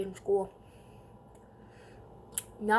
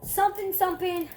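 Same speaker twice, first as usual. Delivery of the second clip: mock desk lady; 6 semitones higher, 3 dB louder than usual. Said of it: "then they say".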